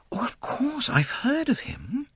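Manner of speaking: a hint of a gracious young heiress; light, polite young woman; young woman, lightly voiced. A narrator's reading. Lynette voiced, distracted.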